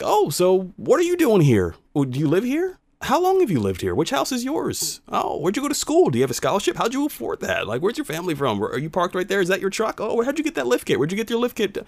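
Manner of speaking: high-pitched nosy questioner; imitated interrogation. Imitating nosy strangers' stream of questions.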